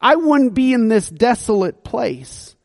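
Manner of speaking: grumbling mock complaint at the king; a touch of bitter blame; frustrated. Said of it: "he's frustrated at King David going".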